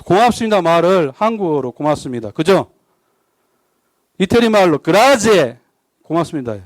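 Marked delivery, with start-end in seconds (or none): 4.8-5.6 그라제 said as a mock Italian grazie, slow and drawn out; playful fake Italian 그라제, slow; joke Italian. Shown as a demonstration. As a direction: drawl 그라제 like a hammed-up Italian thank-you. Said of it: "한번 들어보세요".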